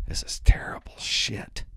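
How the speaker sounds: whispered verdict to the crowd; disgusted whisper. Real, not acted. Comic judging the school paper, whispered disgust. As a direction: murmur it like a confession of disgust.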